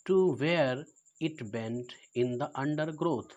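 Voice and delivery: slow, measured poem reading with pauses between phrases; poem recitation. Acted. Teacher reciting a Frost poem to class nine, slow recitation. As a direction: read out each phrase slowly and deliberately.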